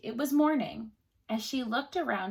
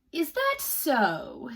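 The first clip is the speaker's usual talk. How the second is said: a king who does not believe it; doubtful king; 4 semitones higher, much slower than usual. Acted. King answers the boast.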